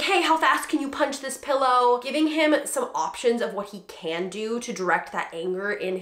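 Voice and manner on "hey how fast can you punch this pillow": higher, upbeat dare; playful challenge. Shown as a demonstration. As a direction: make it a game. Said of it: "I'll say, like".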